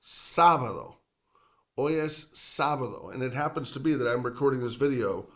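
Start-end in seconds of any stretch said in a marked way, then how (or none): 0.0-3.1 sábado with the weight on SÁ; stressed first a. Shown as a demonstration. Teacher modeling sábado stress for learners. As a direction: open strong on the first a of sábado. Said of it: "accent over the first A".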